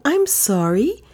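put-on high, dutiful young woman voice; polite by rote, no feeling; mechanical politeness. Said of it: "with mechanical politeness".

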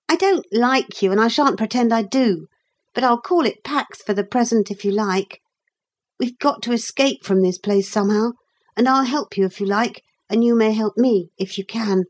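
a touch of brisk, grudging truce-making; lightly voiced boy offering a grudging truce. Narrator voices boy Philip.

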